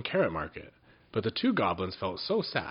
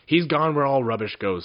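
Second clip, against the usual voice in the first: louder and higher, brushing it off; dismissive wizard; 5 semitones higher, 8 dB louder than usual. A narrator's reading. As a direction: toss the answer away.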